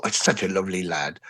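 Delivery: low, soft admiring remark; imitated fond praise. Onlookers praising the lad back home, imitated fond praise. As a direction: imitate someone quietly approving of a nice lad.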